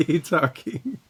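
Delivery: anime voice. Retold or imitated. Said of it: "talk like anime characters".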